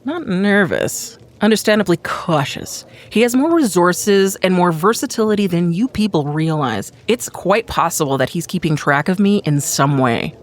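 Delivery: measured, lightly theatrical reply; cautious conspirator, defensive. Acted. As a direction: defend your caution with composure. Plays character in dramatic reading.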